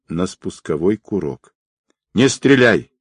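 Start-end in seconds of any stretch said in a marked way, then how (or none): 2.1-2.9 loud urgent cry to hold fire; shouted warning. A narrator's reading. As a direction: shout it out, stop him shooting. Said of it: "крикнул Волк".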